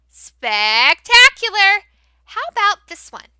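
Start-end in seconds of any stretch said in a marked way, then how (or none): 0.1-1.8 louder, slow, drawn-out cheer; excited praise. Shown as a demonstration. Teacher cheering the class after reading, excited. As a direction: stretch out the praise.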